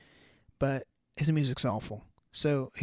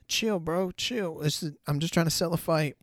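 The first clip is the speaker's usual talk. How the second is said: nervous fighter backing down; 4 semitones higher than usual. Retold or imitated. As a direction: play the guy suddenly scared off the real fight. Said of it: "you could tell dude was like".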